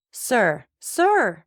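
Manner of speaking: high, desperate crying out; terrified cry. Acted. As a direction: cry out in panic. Wife cries out in terror.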